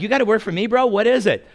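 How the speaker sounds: laughing challenge to the pompous visitor; amused challenge. Retold or imitated. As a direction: egg him on, barely holding a laugh. Amused reply to rival.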